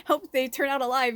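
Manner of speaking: a viewer watching the cartoon fight, mock worry; mock worried. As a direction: fret over the brawling cartoon animals. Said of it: "And you're like".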